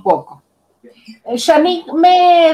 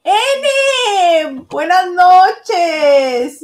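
excited greeting; 5 semitones higher, much slower than usual. Real, not acted. Greeting arriving viewer.

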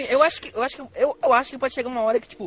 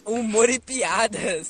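laughing; 4 dB louder, much slower than usual. Real, not acted. Ri da própria piada.

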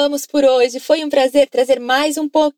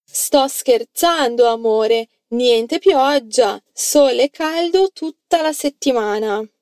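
slow model sentence. Shown as a demonstration. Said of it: "fala pra mim em italiano".

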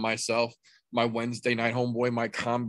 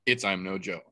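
ringmaster. Acted. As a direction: hype the crowd like a circus ringmaster. Host opens the show.

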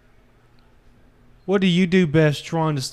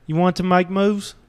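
a hammed-up British tough-guy accent, lightly done; shitty put-on British accent. Man telling his partner old advice in a bad British accent. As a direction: fake a rough British accent for the bit. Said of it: "The last shitty accent I can pull out".

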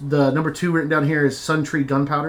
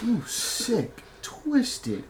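mock outrage; 11 semitones higher, slower than usual. Mock outrage at friend's story.

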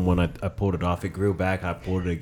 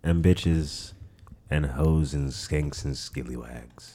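slow drawl; 4 semitones lower, 3 dB quieter, slower than usual. Real, not acted. Drawn-out silly sign-off.

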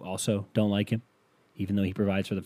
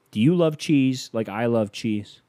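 commercial voice; 3 semitones higher, 6 dB louder, slower than usual. Shown as a demonstration. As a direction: lean in and sell it slowly. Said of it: "this is what it would sound like".

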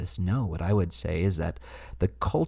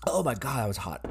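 startled exclamation; 4 semitones higher than usual. Real, not acted. Just sipped very hot tea.

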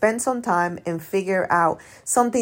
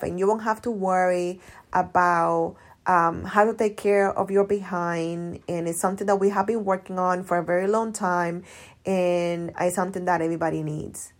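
vague sales pitch demo. Shown as a demonstration. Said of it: "you do a post and say".

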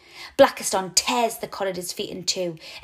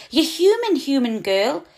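high little squeak, louder at first; 6 semitones higher, 5 dB louder than usual. A narrator's reading. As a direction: squeak it into her ear like a tiny mouse. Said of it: "he squeaks into my ear".

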